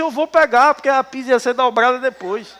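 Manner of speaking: put-on a boy insisting to his aunt, childish; stubborn child. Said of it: "Eu disse".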